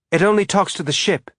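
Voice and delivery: put-on eager kid showing off news; excited boy. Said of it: "his young boy's voice bright with excitement".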